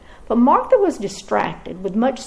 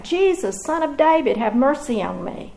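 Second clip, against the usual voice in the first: crying out for mercy; 3 semitones higher than usual. Acted. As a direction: call out to him from the roadside, begging. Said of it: "he cried out".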